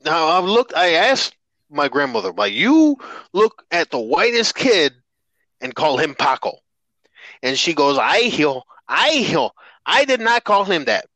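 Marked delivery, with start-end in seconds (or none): 2.5-6.6 accusing. Retold or imitated. Confronting grandmother in story. 8.0-11.1 lightly voiced denying abuela; grandmother voice. Grandmother denies in story.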